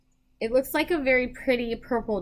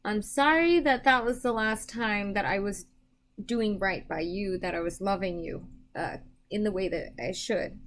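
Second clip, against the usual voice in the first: gently sorrowful, understated quote; subdued apology; 2 semitones lower than usual. Retold or imitated. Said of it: "That's how he's saying it. Like".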